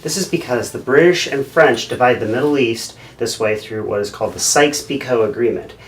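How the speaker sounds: loud, bubbly explainer voice; instructional video host. Acted. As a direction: overeager presenter selling maps. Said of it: "Here's an instructional video".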